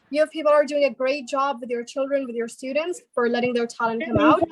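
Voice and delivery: American English praise; American-accented public thanks. Shown as a demonstration. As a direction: compliment them in an American accent.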